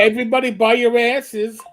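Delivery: a light Eastern Kentucky twang; Eastern Kentucky accent. Pretend. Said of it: "It's the accent".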